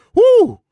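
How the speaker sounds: high, loud exclamatory whoop; sharp whoop of amazement; loud whoo. Real, not acted. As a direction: let out a big high whoo. Exclaiming over first-quarter onslaught.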